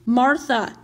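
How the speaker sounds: mildly soothing address; gentle. Acted. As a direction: call her name with gentle care. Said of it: "Greg said gently".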